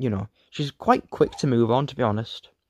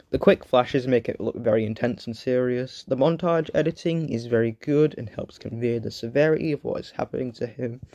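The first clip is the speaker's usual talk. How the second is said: strained, tired throat; talking through a sore throat. Real, not acted. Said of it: "And my throat is dying".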